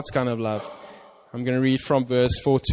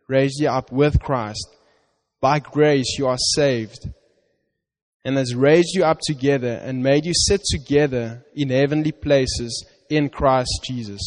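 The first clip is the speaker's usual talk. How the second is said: scripture reading. Acted. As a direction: read it as God's promise to you.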